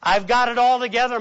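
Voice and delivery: hammed-up cheerful mask; fake confidence. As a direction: sell the act of having it all together. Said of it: "It's like".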